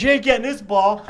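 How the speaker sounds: put-on defiant kid. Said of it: "So Mike goes".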